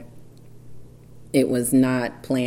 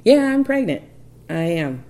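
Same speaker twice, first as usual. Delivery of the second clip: much higher, louder insistence; insistent; 4 semitones higher, 4 dB louder than usual. Retold or imitated. Wife insisting to her doubting husband, loud and emphatic. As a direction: drive the point home, emphatic. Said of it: "insisting to husband".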